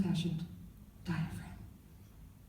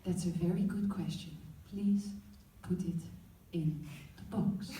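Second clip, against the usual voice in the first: lightly put-on Dutch mom accent; a hint of a Dutch mother's accent; 2 semitones lower, 6 dB quieter than usual. Mom teaching the class sex ed in a light Dutch accent. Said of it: "Sorry, I forgot about my Dutch accent".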